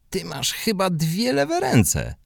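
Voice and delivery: high, slow mocking boy's voice; mocking shout. Radek shouts at Hubek on the pitch, high and mocking. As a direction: call it out high and teasing across the pitch. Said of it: "Radek krzyknął do niego".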